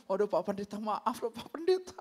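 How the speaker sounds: imitated meek, apologetic plea; sheepish apology. Congregant apologising to the pastor next day, mock sheepish. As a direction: soften into a contrite plea, rising at the end.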